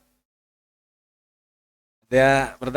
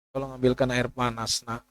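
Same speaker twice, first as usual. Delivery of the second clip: weak sick request; 2 semitones lower, 7 dB quieter than usual. Retold or imitated. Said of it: "mana bisa".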